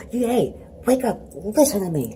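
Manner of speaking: put-on high piercing child yelling; a little girl shouting to wake grandpa; child's shrill yell. Daughter yelling at sleeping grandpa, loud and high.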